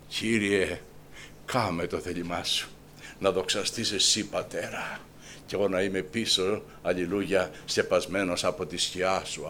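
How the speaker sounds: quiet, hushed prayer to God; murmured prayer; soft prayer. Acted. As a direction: pray it softly, fading to a whisper.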